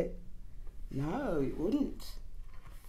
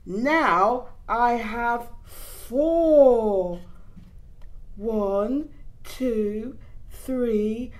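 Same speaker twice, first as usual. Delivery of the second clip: put-on baby voice; 4 dB louder, much slower than usual. Baby counts teeth.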